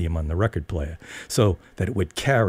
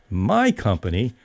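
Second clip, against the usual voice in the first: weeping; 2 semitones higher than usual. Retold or imitated. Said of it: "Brenda wept".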